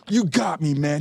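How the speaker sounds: high, delighted imitation of being stumped; lightly voiced amazed actor; impressed. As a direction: play the star admitting he's beaten. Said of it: "He's like".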